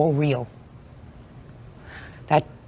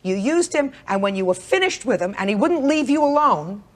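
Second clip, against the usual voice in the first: higher-pitched, emphatic accusation; stern scolding; 4 semitones higher than usual. Real, not acted. Judge berating litigant over harassment complaint, stern scolding. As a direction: press the accusation hard without shouting.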